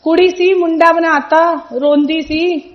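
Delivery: slow, deliberate Punjabi saying; guruji's words slowly. Retold or imitated. Guruji telling the mother, slow and deliberate. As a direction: lay out each word slowly like a blessing. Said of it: "तो गुरुजी बोले".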